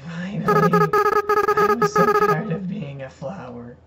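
lightly voiced game villain, drawn out; slow, weary villain put-on voice; Flowey voice. Reads the villain's line aloud in his Flowey voice. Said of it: "I guess I'll do my floppy voice".

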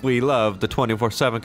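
a slip into a lightly put-on accent on "We love the twenty-four seven"; half-hearted accent, sliding into it without meaning to; odd accent. Streamer at work slipping into a light accent. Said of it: "I don't know why I said it in that accent".

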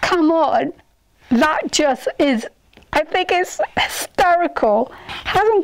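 speaking inside plastic dome; muffled behind clear visor; through a face shield. Real, not acted. Seen 2: Clear plastic shield with valve covers face until removed near 6.7s.

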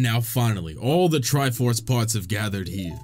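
slow, solemn narrator voice; dramatic game narrator. Acted. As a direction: read it like an epic cutscene. Reads game dialogue aloud.

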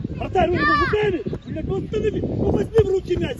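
angry shout. Real, not acted. Coach scolding the goalkeeper.

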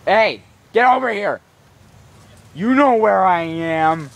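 loud, high call to a dog. Real, not acted. Owner calling dog over here, loud shout.

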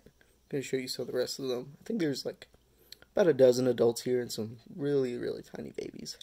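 talking around a flashlight in the mouth; muffled, mouth full, barely voiced. Real, not acted. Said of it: "Sorry, I had the black light in my mouth".

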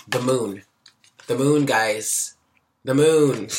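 thrilled, each repeat bigger; excited. Real, not acted. Reader spots the Moon card, building excitement. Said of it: "I'm getting all excited".

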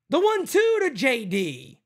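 excited play-by-play. Real, not acted. Streamer calling the inning-ending grounder, excited call. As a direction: rattle off the play as it happens.

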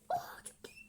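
high, breathy squeal; squeal of delight. Real, not acted. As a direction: squeak it out, thrilled. Delighted at the update.

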